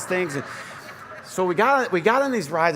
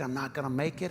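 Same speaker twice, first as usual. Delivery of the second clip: despairing; 9 dB quieter than usual. Pretend. Imagined listener losing hope.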